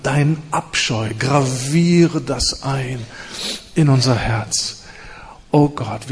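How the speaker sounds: intense spoken prayer, rising and falling; impassioned congregational prayer; fervent prayer. Acted. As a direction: pray aloud over the congregation.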